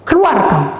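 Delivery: lightly voiced commanding angel. Angel Michael ordering a spirit out, firm retold command.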